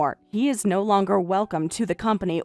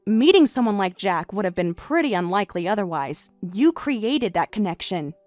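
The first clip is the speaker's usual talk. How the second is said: lower, quieter, dry and pointed; a sly thank-you with a sting; wife coolly twists the knife; cool irony; 9 semitones lower, 5 dB quieter than usual. Acted.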